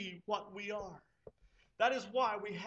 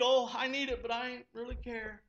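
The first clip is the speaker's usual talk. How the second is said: mock careless shrug in the voice; a hint of lazy indifference; nonchalant. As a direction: toss it off like it barely matters. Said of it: "with a nonchalant attitude".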